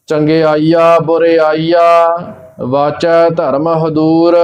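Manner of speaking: measured recitation with spaces between phrases; scripture recitation. Acted. Teacher reciting Gurbani for learners, measured recitation.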